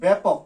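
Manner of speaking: teacher sounding ব্যাপক to the class; demo pronunciation. Shown as a demonstration. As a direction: say ব্যাপক with lips spread, clearly. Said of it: "এটাকে".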